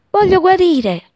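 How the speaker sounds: high, loud joyful cry; shouting. A narrator's reading. Healing sparrow crying out her wish, loud and high. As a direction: cry it out with new hope. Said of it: "gridò".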